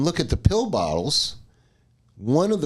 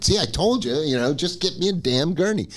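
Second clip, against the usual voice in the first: higher-pitched I-told-you-so; retold indignant complaint, pitched up; exasperated; 5 semitones higher than usual. Patient who just threw up telling off staff, exasperated.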